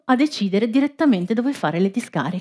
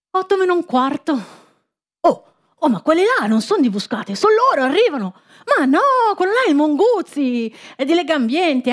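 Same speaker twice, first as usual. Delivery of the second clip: eager protester; 5 semitones higher than usual. Acted. Excited protester spotting allies.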